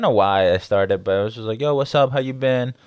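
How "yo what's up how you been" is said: lightly re-enacted upbeat hello; casual higher-pitched hail; friendly greeting. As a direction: greet a buddy with a lifted pitch.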